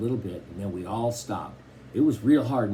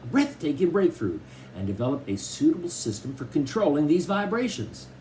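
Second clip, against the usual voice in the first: lightly voiced smooth salesman; salesman impression; 5 semitones higher than usual. Dad imitating the record player salesman, slick pitch. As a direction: sell it like a slick dealer. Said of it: "Dad kept imitating the guy who sold him".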